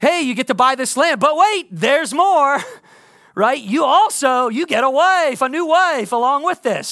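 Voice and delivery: hard-sell infomercial announcer. Speaker asks listeners to imagine Boaz speaking, Boaz in an infomercial voice. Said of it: "in this like infomercial voice".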